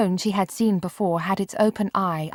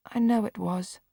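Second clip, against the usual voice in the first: meekly; 4 semitones higher than usual. Acted. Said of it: "Marianne said meekly".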